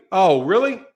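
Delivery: incredulous ref, ham it up on "What?"; mock ref. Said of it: "He was like".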